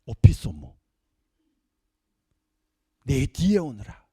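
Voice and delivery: low, slow, loud command; 오피소무 low and heavy, slow. Acted. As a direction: order him behind you. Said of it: "똑같은 단어가 나왔어요".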